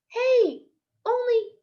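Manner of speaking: high, loud call; shouting after car. Acted. Junie shouting after the speeding Cadillac.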